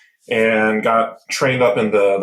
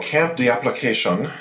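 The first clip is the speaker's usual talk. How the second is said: French accent; 3 semitones higher than usual. Shown as a demonstration. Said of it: "that's my best French accent".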